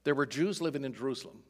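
quick, wry "There were Jews living in Jerusalem" with a pointed stress on Jews; wry repeat. Shown as a demonstration. Preacher to his congregation, repeating the verse fast and wryly. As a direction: toss the line off fast, as if stating the obvious. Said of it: "isn't that kind of a curious statement".

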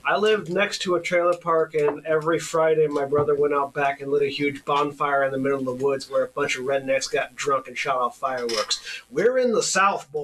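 put-on a Southern accent creeping in, stronger by the end; growing Southern accent. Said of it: "Your voice became more and more Southern".

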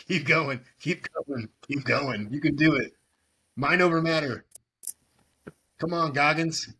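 high excited chanting; frat bro. Real, not acted. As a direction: hype up a friend like a coach. Cheering the chug.

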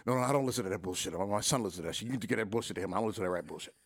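a hint of dismissive old comic, rattled off quickly at first; Paul Mooney impression. Retelling Paul Mooney refusing his CD, lightly imitated dismissive brush-off. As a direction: lightly brush the kid off, half-hearted mimicry. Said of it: "I'm gonna do my best one".

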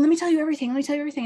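retold eager insistence. Excitable client begging to explain on the phone, mock-eager. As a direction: imitate someone bursting to tell it all.

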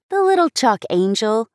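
mock the angel with disdain; scornful. A narrator's reading. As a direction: sister scoffing at her brother's gift.

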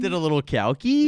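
loud excited bro voice; frat bro. Pretend. Mock frat bro bit.

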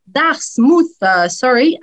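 put-on English accent on Dartmouth; super English accent. Shown as a demonstration. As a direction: say Dartmouth as an English speaker would, with emphasis. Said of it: "avec mon super accent anglais".

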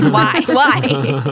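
loud, hammed-up wail of protest; mock anguished plea. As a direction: wail it in comic despair. Friend's wounded plea in retold scene.

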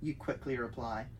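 pleading. Acted. Player character pleading.

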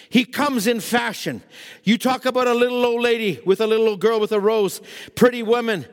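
emphatic sermon warning; preaching. Real, not acted. Preacher warning friends that the devil is cunning, emphatic preaching. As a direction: press the warning home from the pulpit.

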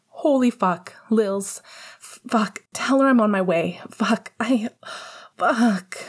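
frantic high cursing; flustered panic; panicked. Acted. Panicked father-to-be swearing.

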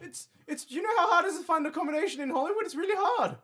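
high, loud, fast little creature; high squeaky hand voice. Acted.

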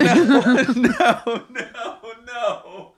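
high-pitched no through laughter; helpless laughing refusal; laughing protest. Real, not acted. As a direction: crack up while saying no. Cracking up at wrong guess.

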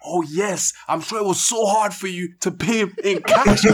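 high, laughing, sarcastic mock sympathy; mock someone's fake pity through laughter; mocking quote while laughing. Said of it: "or it's like".

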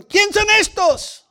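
the startled brethren eyeing the gang members; alarmed church member. Retold or imitated. Hermanos asustados preguntan. (hermano alarmado, agudo y lento)

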